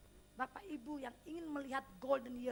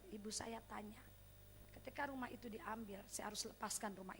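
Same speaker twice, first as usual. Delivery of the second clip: whispered aside; 6 semitones lower, 11 dB quieter than usual. Real, not acted. Whispered narration.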